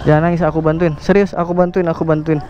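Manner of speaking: calm down someone in tears, pitched low; calm reassurance. Real, not acted. Rider comforting a crying stranded stranger, calm and reassuring.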